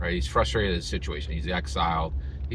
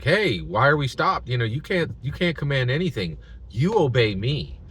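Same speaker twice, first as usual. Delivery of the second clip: loud, higher scolding from an entitled brother; angry brother; 5 semitones higher, 3 dB louder than usual. Retold or imitated. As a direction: bark orders at your sister. Brother storms up, slaps her.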